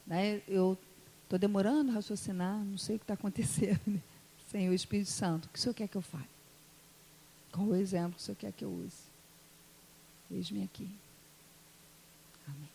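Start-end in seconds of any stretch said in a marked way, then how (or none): 4.5-12.7 low, soft aside to God; hushed prayer. Real, not acted. Tired preacher asking Holy Spirit for guidance, hushed prayer. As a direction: ask humbly under your voice.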